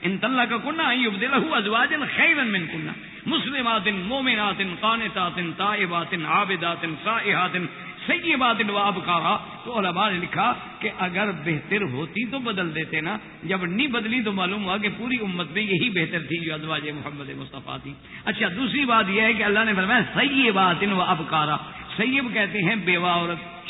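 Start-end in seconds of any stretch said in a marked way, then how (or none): 0.0-9.4 Quranic recitation. Acted. Recites the full verse. 20.0-21.6 slow recitation. Acted. Quotes verse words slowly.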